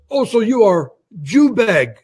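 slow mock Russian accent; imitating a caller's halting Russian accent. Caller retorting after Israel comes up, mock Russian accent. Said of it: "He starts with this Russian accent".

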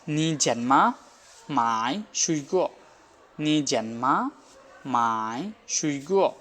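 slow, careful Chinese sentence; slow Chinese demo. Shown as a demonstration. Teacher modelling a Chinese question slowly for students. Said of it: "একটা question তৈরি করি".

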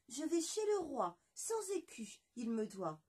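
high, matter-of-fact little voice; half-chick's reply. Acted. La moitié de poulet répond fièrement, voix aiguë. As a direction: state your errand proudly.

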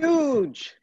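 a high, loud burst; excited. Real, not acted. Cohost cheering the Saturday Night Live super fans, excited. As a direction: blurt it out with delight.

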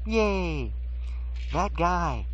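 a quick high yay like a fan in the crowd; hammed-up fan cheer; mock cheer.

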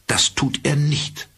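high, slow and curt, ice cold; coolest, curtest tone. A narrator's reading. Mother coldly refuses Al's visit, curt and icy. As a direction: shut it down flat and frosty. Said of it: "in ihrem kühlsten und schroffsten Ton".

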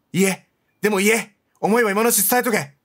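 cheering at the screen; urging shout. Real, not acted. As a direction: push her to say it now. Urging the character to speak.

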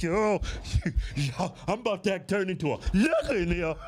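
half-laughing, half-pleading; laughing mock plea. Storyteller to his friend, laughing through a mock plea.

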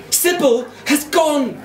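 slow, high wail of despair; anguished cry. A narrator's reading. Boy announcing his lost spider: slow high wail. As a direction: stretch out the bad news, crying high.

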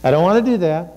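firmer repeated refusal; insistent reluctant self-talk; inner voice, insistent. Acted. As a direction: dig in against the task. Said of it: "You know, the voice that says".

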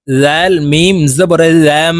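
slow spelling, "জাম" ending in a long hummed m; iqlab ghunnah. Shown as a demonstration. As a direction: hold the m of "জাম" through the nose. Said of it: "ইকলাব গুন্নাহ". ("জাম"-এর মিমে টানা গুন্নাহ)

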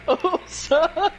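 high eerie ghost voice. Pretend. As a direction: call out like a spooky ghost. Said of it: "the speaker's ghost voice".

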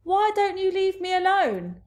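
high, loud, pleading voice; nervous stammer. A narrator's reading. Nervous BFG pleading with the bully, high stammer. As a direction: start haltingly, then rise into a high plea. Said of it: "he stammered".

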